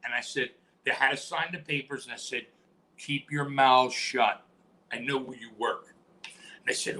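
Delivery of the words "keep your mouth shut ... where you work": slow, low warning; threat. Retold or imitated. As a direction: lean in and menace them slowly. Threatening the ambulance crew.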